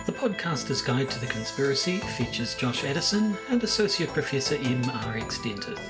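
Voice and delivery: scripted outro announcement; measured sign-off with a dry closing aside; podcast credits read. Acted. Recorded closing credits over music.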